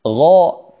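غاء with a full, dark, rounded vowel; heavy ghayn. Shown as a demonstration. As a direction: sound out a thick غ in غاء. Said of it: "الغي من الحروف المفخمة". (نطق غاء بغين مفخمة)

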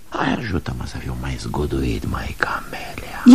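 whispered, pleading request; hushed plea. Acted. Man whispering a plea to Camelia, hushed. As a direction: breathe it to her as a plea.

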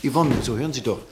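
loud, desperate call as she walks out; calling after her. Acted. Doctor calls after the departing secretary, pleading loudly. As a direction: shout her name to stop her leaving.

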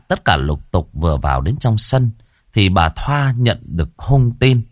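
ordinary delivery

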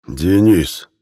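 growled, clumsily shaped name; a bear forcing out a human word; clumsy bear speech. A narrator's reading. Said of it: "коряво сказал Рох".

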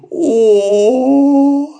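high, loud mock-pained moan; a theatrical put-on groan; fake groan. Laban faking illness to the bunnies, loud hammed-up moan. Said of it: "застонал вдруг Лабан".

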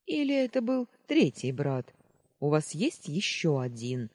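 sentry aghast at another troublemaker; mock horror. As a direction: dread the thought of a third brother. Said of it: "с нескрываемым ужасом".

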